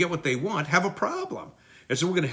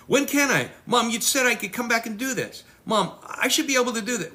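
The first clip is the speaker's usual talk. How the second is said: higher, pleading kid voice that badgers mom; a child nagging his mom to let him go back; badgering child; 6 semitones higher than usual. Child nagging mom, lightly voiced whiny kid.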